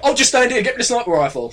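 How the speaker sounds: laughing mock imitation. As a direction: tease him with a giggle. Mocking friend's plan.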